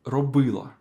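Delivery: Робила with its middle vowel и stressed. Shown as a demonstration. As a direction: lean on the и in Робила. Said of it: "emphasis on the letter ü".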